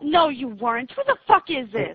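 sudden outraged outburst, pitch jumps up; angry disbelief at the caller. Real, not acted. Confronting rude caller.

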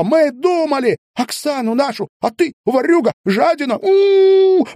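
very high, screaming rage; hysterical fury. A narrator's reading. Zhanna clawing at her cousin, hysterical rage. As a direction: shriek at him in hysterics.

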